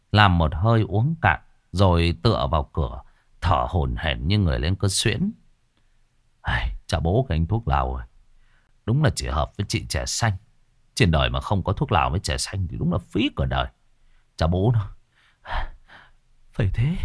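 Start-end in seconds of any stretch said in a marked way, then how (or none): 6.4-17.0 a hint of a contented old man, slightly softer; satisfied sigh of an old master after his pipe; lazy pleased old man muttering to himself; lightly voiced old man. Old fortune-teller savoring tobacco.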